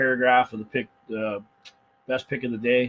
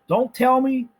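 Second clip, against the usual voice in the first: emphatic; 12 semitones higher, 6 dB louder, slower than usual. Real, not acted. Making his point emphatically.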